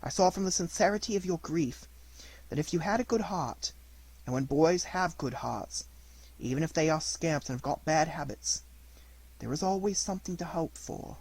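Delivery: soft, gentle motherly voice; fairy forgiving her puppet, quietly tender; tender forgiveness. Acted. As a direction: comfort him softly like a mother.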